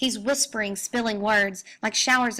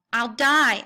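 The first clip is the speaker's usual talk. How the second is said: louder anguished howl; 2 semitones higher, 5 dB louder than usual. Acted. Wounded Grendel crying out as he flees, a louder howl. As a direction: wail it out in pain. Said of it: "I howl".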